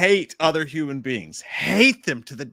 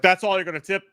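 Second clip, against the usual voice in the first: put-on scolding old man; 6 semitones higher than usual. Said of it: "He's like".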